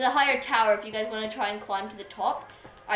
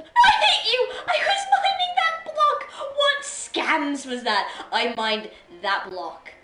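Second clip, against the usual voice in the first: very high, loud shriek easing into a drawn-out shout; outraged screaming; 10 dB louder, slower than usual. Real, not acted. Gamer raging over a mined block, outraged scream. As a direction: scream in outrage, stretching the words.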